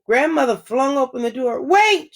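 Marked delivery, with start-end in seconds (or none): 1.6-2.1 high, loud sudden cry; startled. A narrator's reading. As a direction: stop short in alarm. Grandmother startled at the door.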